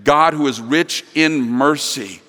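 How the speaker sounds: slowed, each word weighed; slow and deliberate; slow emphatic reread. Shown as a demonstration. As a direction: let each word land. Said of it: "Let me say that first part again".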